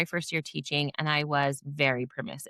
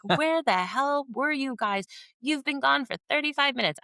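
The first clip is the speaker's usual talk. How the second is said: retold angry demand; 9 semitones higher than usual. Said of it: "and I'm like".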